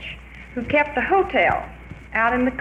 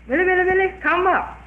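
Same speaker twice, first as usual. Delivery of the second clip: high, loud sing-song echo; teasing echo of the witch's call; man mocking back from the tree; 8 semitones higher, 4 dB louder than usual. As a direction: throw her chant back up at her.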